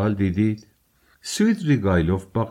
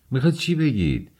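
raised, high-pitched demand; crying out; 6 semitones higher than usual. A narrator's reading. Raskolnikov demands Svidrigailov's meaning, crying out. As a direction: exclaim it high, without a full shout. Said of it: "راسکولنیکوف فریاد زد".

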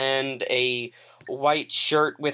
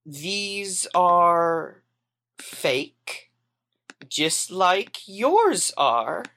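meaningful; 2 semitones higher, much slower than usual. Acted. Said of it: "gestures towards her feet meaningfully".

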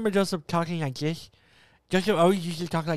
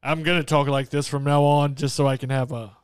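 deep voice. Pretend. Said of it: "deep voice".

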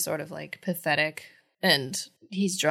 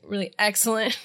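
lightly mocking sarcasm; sarcastic. Quoting her answer about how her night has been, mildly sarcastic. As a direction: say it with understated irony. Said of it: "Rory's being so sarcastic".

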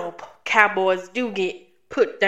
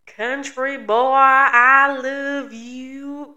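very slow, louder, higher drawn-out meme line; quoting the meme; 3 semitones higher, 8 dB louder, much slower than usual. Retold or imitated. Host replays the meme for her co-host, stretched and loud. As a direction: belt it out like the old Vine. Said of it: "Have you seen that video?".

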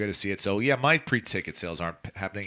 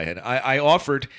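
blocked nose voice; stuffy nose. Real, not acted. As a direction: talk like your nose is blocked. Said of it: "I sound like absolute ass".

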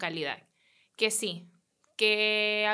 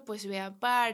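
put-on Medellín accent; slower than usual. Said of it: "En Medellín hablan un acento".

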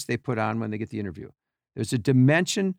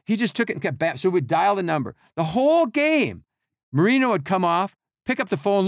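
ordinary delivery

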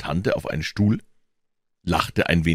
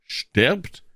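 startled question; 9 semitones higher than usual. Acted. Aunt startled by deathbed news.

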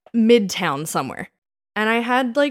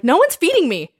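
laughing mock complaint; 8 semitones higher, 6 dB louder than usual. Retelling getting home drunk.

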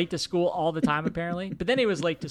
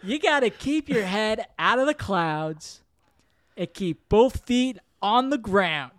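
mock stern dad lecture; 3 semitones higher, 5 dB louder, slower than usual.

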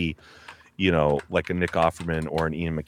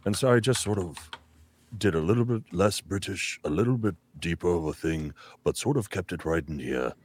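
put-on dramatic wise old wizard, hushed; 5 dB quieter than usual. Shown as a demonstration. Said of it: "my wise old wizard voice".

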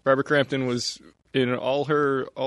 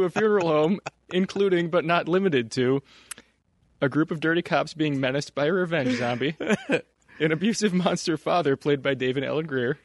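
trying not to laugh. Real, not acted. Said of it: "I can't even keep a straight face".

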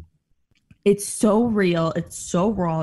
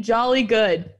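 mock Martin; 4 dB louder than usual. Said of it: "He kept saying".

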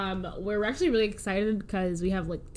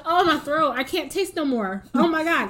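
louder, higher mock panic; 4 semitones higher, 5 dB louder than usual. Panicking in the clinic room, louder mock panic. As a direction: fake symptoms dramatically. Panicking about covid symptoms.

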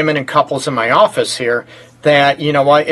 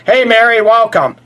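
higher-pitched welcome shout-out; shout-out greeting; 5 semitones higher than usual. Real, not acted. Host greets an old friend mid-show, shout-out greeting. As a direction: greet a listener with a lifted voice. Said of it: "I gotta give a shout".

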